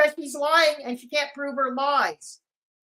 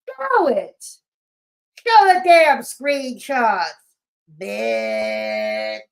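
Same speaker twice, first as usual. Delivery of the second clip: Bridget impersonation; 4 semitones lower, 5 dB louder, much slower than usual. Retold or imitated. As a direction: ham up Bridget demanding the screenshots. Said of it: "I'm gonna do my best Bridget impersonation".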